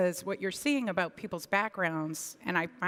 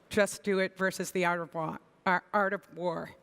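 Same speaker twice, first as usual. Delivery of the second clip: put-on Boston accent. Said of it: "That was my Boston accent".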